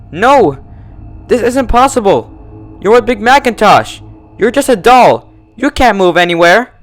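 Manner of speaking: high, loud hysterical cries; hysterical shouting. A narrator's reading. Twilight screams at the living doll, hysterical.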